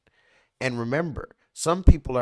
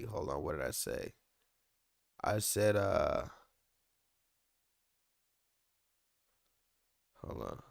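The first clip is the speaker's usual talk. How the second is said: much softer, low aside to himself; muttered aside; 10 semitones lower, 10 dB quieter than usual. Real, not acted. Checking his own notes, muttered much softer. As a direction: drop away from the mic and mutter.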